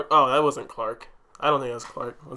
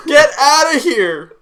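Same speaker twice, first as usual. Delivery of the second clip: loud, high, drawn-out disbelief; incredulous yell; 12 semitones higher, 10 dB louder, slower than usual. Real, not acted. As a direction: holler it slowly, totally stunned. Shouted disbelief at the reveal.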